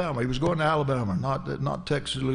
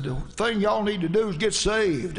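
getting back at him; 5 semitones higher than usual. Retold or imitated. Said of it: "getting a little bit of the flesh in there".

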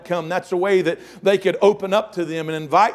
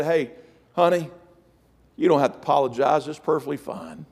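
kind reassurance; 2 semitones lower than usual. Retold or imitated. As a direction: soothe her gently, mildly acted. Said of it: "he just talked so kind to her".

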